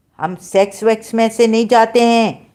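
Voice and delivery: loud, high-pitched voice.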